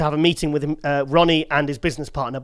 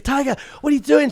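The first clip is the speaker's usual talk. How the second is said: raised pitch, lightly imitating Crystal; high mock girly voice; 9 semitones higher than usual. Friend calling out to him outside the club, in a high mock girly voice. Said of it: "She goes".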